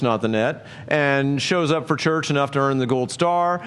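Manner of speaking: sarcastic mock scripture reading; mock misquote. Preacher mocking a false reading of the verse, sarcastic. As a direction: read the fake verse with a knowing smirk. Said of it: "It doesn't say".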